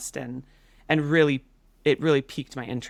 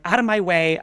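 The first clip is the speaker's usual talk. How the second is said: louder, higher mock shout; retold scream; 4 semitones higher, 5 dB louder than usual. Running to save the geese, mildly hammed-up scream at everybody. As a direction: act out shoving past everybody. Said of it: "I'm screaming at everybody".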